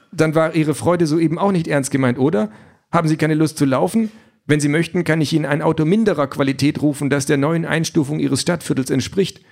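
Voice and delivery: the car apologetically throws him out, all politeness; overly courteous AI car, regretful; polite car voice. Acted.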